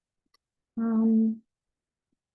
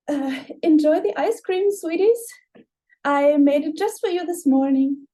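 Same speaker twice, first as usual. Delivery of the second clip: a hint of forced sugary hostess; fake sweetness; 5 semitones higher, 4 dB louder than usual. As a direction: paste the smile back on. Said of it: "putting on the mask of hospitality".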